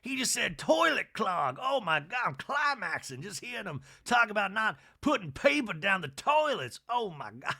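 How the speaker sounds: high, loud thrilled outburst; mock ecstatic. Sutton swooning over the toilet talk, loud and high. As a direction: gush in hammed-up rapture. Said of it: "Son's like".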